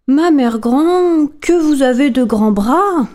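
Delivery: put-on a curious child asking slowly; wondering little girl. Girl questions the wolf.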